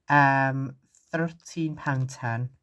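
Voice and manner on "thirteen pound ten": Scottish accent. Real, not acted. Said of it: "in, like, a very Scottish way".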